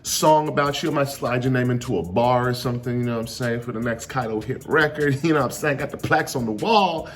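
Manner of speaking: cocky villain brag. Retold or imitated. Kaido bragging to Luffy.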